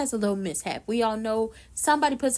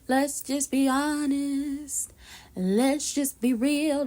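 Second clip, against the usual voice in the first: slow emphatic; 3 semitones higher, much slower than usual. Real, not acted. Drawn-out emphatic honesty line.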